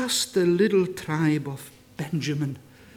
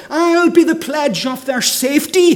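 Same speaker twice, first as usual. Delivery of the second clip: Jesus' pledge, proclaimed; 8 semitones higher, 9 dB louder than usual. Acted. Preacher voices Jesus' pledge.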